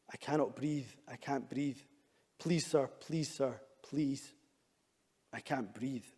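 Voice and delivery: grave, lightly voiced pleading of a man pinned down; George Floyd's last words. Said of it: "Here are George Floyd's last words".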